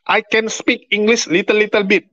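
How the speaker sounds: put-on slow, high Indonesian-accented English. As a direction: imitate a beginner's halting English, Indonesian accent. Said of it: "dia ngomongnya seperti itu".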